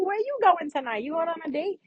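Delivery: light, easy friendly praise; cheerful, friendly compliments. Retold or imitated. To a friend, light friendly compliments. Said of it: "We're more like this".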